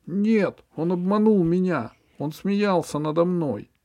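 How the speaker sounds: high, earnest little creature voice; ball character voice. A narrator's reading. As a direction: voice a wronged, bitter ball. Ball voice again.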